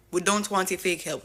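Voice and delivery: insistent imitating of a leader's rebuke. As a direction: hit it harder the second time. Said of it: "and saying".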